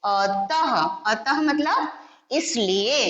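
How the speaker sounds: अतः said slowly with a final h; careful अतः with visarga; visarga pronunciation. Shown as a demonstration. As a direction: draw out अतः and breathe the end. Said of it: "अह की मात्रा जोड़कर बनता है".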